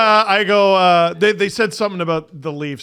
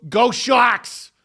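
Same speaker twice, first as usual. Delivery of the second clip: cheering fan; 8 semitones higher, 5 dB louder than usual. Retold or imitated. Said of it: "one of them goes".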